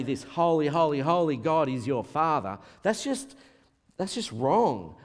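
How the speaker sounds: imitating scandalised listeners; upset objection. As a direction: object as if it were heresy. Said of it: "Some people got so upset".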